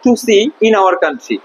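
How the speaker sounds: slow, deliberate model sentence; slow reading. Shown as a demonstration. Teacher reading the textbook line slowly to the class. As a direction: spell it out slowly for the pupils. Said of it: "দেখো".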